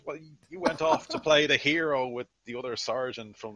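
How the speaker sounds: acted accusing comeback; defensive retort. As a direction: play a soldier protesting in his own defence. Voxbox retorts to player's complaint.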